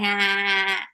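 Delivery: lightly imitated cartoon laugh; Peter laugh. Viewer copying what she hears on Family Guy, mock laugh. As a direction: mimic a spaced-out "ha ha ha" laugh. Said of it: "Hear the Peter laugh".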